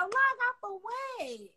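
high, long drawn-out question; defiant refusal. Real, not acted. Streamer to viewers begging her to leave, defiant high drawl. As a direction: stretch it out high, refusing to budge.

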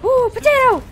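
high, loud startled spell shout; playful battle cry. Pretend. Gamer blocking a surprise attack, high playful shout. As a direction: blurt the silly spell at a yell.

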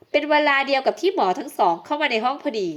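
ordinary delivery

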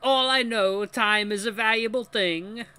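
put-on high, loud, botched French accent; failed French attempt. The speaker quoting lyrics to students, botched French accent. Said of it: "this is not a French accent".

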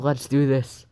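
mocking quote. Gamer teasing himself for failing after saying it. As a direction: throw his words back at him. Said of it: "You just said".

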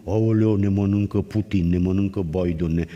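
lightly voiced doom-monger wailing; a hint of a panicked pessimist; mock fatalist. Priest mocking fearful couples, lightly wailing fatalist. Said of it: "nu cu".

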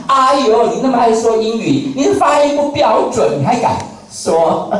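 a mild mock of a nosy critic sneering at your English. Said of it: "人家就会批评你".

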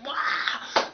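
long, drawn-out wow; amazed wow. Retold or imitated. Vlogger retelling an underdog win, amazed. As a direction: let an excited wow stretch out. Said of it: "It was like".

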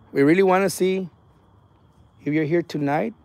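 slow, deliberate call to an unseen presence; spirit invocation. Real, not acted. Ghost hunter asking a spirit to show itself, formal invocation. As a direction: address the spirit clearly, spacing out each phrase.

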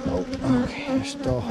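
strained while lifting; grunting under a heavy frame; carrying heavy load. Real, not acted. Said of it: "this is really heavy".

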